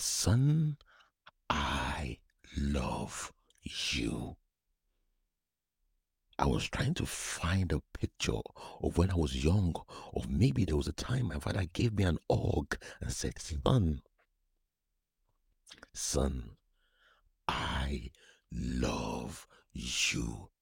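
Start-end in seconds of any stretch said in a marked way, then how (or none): 0.0-4.4 whispered, very slow and drawn out; tender whisper. Pretend. A son imagining his father, whispered slowly. Voicing the words longed for. 13.4-20.5 gentle fatherly voice. Pretend. Imagined father's hug.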